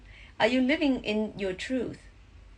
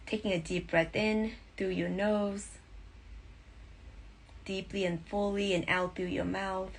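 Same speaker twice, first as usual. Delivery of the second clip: guided meditation. Acted. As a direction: breathe them into calm.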